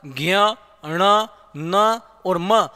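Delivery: slow ज्ञ अण न म hummed through the nose; teacher demonstrating nasal consonants; nasal sounds demo. Shown as a demonstration. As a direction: let ज्ञ अण न म ring in the nose, slowly. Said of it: "वो हमारे नाक से ही ध्वनि आती है".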